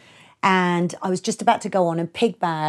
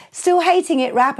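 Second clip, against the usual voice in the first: teasing promoter; 10 semitones higher, 6 dB louder than usual. Retold or imitated. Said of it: "he was like".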